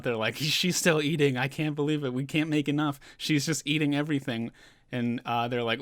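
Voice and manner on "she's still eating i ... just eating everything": slightly raised, louder retold panic; mock freak-out. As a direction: imitate a crew freaking out, mildly. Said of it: "they're kind of freaking out".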